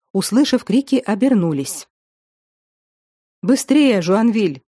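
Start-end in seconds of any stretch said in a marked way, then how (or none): 3.4-4.0 high urgent command; urgent shout. Acted. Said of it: "крикнул граф Суассонский". 4.0-4.6 Жуанвиль called out with urgency; shouted name. Acted. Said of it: "крикнул граф Суассонский".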